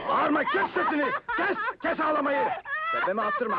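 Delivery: angry command. Acted. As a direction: order the crying captive to shut up. Captor orders captive to be silent. (öfkeyle, sesini yükselterek azarlama)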